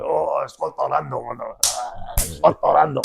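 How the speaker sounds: slow, drawn-out mocking imitation of a group; lightly voiced slow group chant; slow mock chorus. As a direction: stretch it out like a crowd of students teasing. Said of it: "they're all going".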